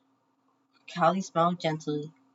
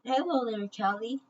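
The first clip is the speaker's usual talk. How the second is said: with care; 5 semitones higher than usual. A narrator's reading. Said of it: "Brave Brain said with care".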